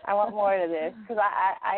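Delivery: loud, high, slow eager insistence; excited. Real, not acted. Eager, laughing wish for more.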